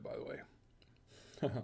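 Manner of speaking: slow, breathy whispered aside. Real, not acted. Savoring the Parm, slowly whispers an aside to camera. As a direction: murmur it slowly under your breath. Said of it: "Why was it whispering?".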